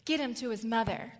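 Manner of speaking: urgent father's call. Retold or imitated. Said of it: "his father yells at the servants".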